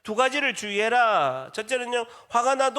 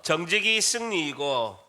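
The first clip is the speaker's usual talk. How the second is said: slow, measured slogan for repeating; leading a repeat-after-me; 4 semitones lower, slower than usual. Shown as a demonstration. Preacher has the congregation repeat a slogan, slow and measured. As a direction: say it slowly so they can follow. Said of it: "한 번 더".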